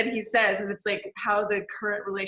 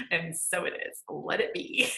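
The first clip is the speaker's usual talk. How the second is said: hushed affirmation; 6 semitones lower, 5 dB quieter than usual. Shown as a demonstration. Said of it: "I say".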